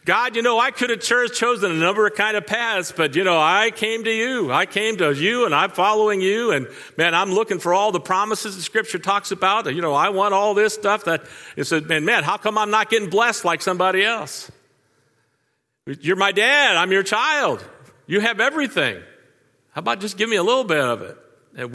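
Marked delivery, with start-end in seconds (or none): 0.0-11.2 much higher, pleading, self-pitying prayer; high whining plea to a heavenly dad; whiny believer to God. Retold or imitated. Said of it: "we treat God that way". 11.9-21.2 much higher, pleading, self-pitying prayer; high whining plea to a heavenly dad; whiny believer to God. Retold or imitated. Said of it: "we treat God that way".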